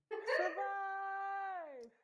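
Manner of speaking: wailing a single word in a mock sob; mock crying. Mocking Ochocinco's crying for the viewers, mock sob. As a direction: imitate a crying man, dragging the word out. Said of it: "Listen at him cry, y'all".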